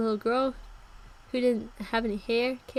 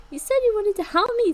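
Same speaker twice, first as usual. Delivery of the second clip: higher, louder hurt accusation; accusing cry; 10 semitones higher, 5 dB louder than usual. Acted. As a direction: throw it at him like a betrayal. Character accusing friend.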